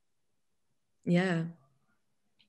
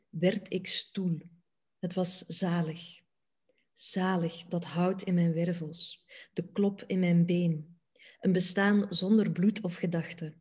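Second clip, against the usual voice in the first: measured poem recitation with long pauses; poetry reading. Acted. Reciting Marija Langelaar's poem about becoming a chair, measured poetry reading. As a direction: read it line by line, letting each image stand.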